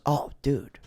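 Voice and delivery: put-on a casual, oblivious old man; dad brushes off son's grief, casual; imitating dad. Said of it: "And he goes".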